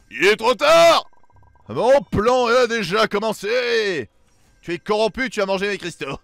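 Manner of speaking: slow, loud gloating villain; booming echoing villain monologue. Acted.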